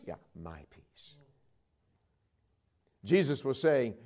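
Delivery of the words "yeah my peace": quiet calm answer. Retold or imitated.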